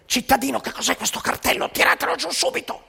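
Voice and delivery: mock-stern guard barking at an old man; scolding official. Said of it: "Uno del servizio d'ordine lo vede e dice".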